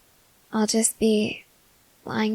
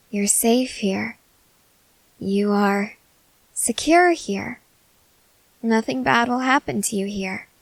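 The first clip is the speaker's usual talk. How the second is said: reassuring. Acted. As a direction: soothe them, lingering on the words. Reassuring a frightened fiancé.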